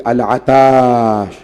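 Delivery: put-on a parched child's wail, held long; drawn-out thirsty cry. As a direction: stretch the word into a long, slow lament. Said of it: "خیام حسینی سے بار بار آواز آتی تھی".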